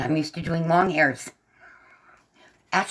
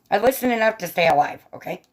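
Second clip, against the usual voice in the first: higher, mildly insistent retort; playful self-defense; 4 semitones higher, faster than usual. Real, not acted. Streamer answering teasing about ignoring doctors, playfully defensive. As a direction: defend yourself with mock insistence. First, insistent take, later repeated.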